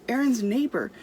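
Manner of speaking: usual speaking voice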